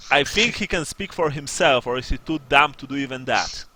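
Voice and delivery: sergeant's pointed, emphatic challenge; irritated sergeant. Acted. Sergeant challenges the man answering for another, irritated. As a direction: press them with open impatience.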